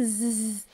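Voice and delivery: a long buzzing "Z"; isolated z sound. Shown as a demonstration. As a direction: draw out "Z" as the bare voiced sound. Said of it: "I pronounce the Z".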